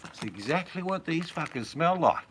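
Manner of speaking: high, loud cry of disgust; loud disgusted outburst. Real, not acted. Husband reacting to the stink of the chips, loud disgust. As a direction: burst out with the punchline, high and loud.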